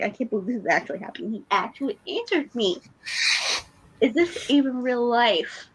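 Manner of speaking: fast, breathless excitement; excited. Retold or imitated. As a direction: rush it out in disbelief. Retelling her excited reaction.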